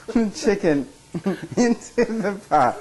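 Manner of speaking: laughing through the words; giggling, slow and high. Real, not acted. Laughing through cooking joke.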